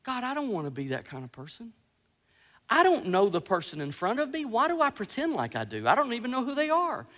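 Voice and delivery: soft, humbled confession to God; hushed retold prayer of conviction; convicted prayer. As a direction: question yourself quietly before God. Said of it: "conviction came over me, and I went".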